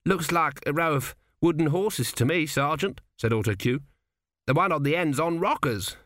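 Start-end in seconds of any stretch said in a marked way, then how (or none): 0.1-3.0 lightly raised, naive lad's voice; young recruit. Acted. Narrator voices young recruit Autocue. 4.5-6.0 lightly raised, naive lad's voice; young recruit. Acted. Narrator voices Autocue.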